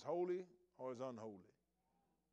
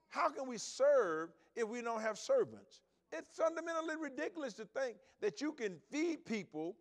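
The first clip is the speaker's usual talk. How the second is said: louder and higher, climbing to a peak; building sermon crescendo; rising preaching fervor; 8 semitones higher, 5 dB louder than usual. Acted. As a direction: preach it up with full force.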